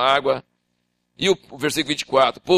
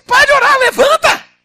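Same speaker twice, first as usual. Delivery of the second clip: voice of God; 9 dB louder than usual. Acted. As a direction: boom it as God asking why. God commanding.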